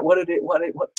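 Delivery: stumbling over the words; tripping over what; stuttering. Real, not acted. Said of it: "Sorry, I'm stuttering".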